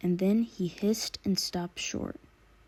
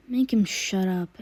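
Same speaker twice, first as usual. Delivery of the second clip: thug shouting; 5 dB louder than usual. Acted. Thugs shouting inside warehouse.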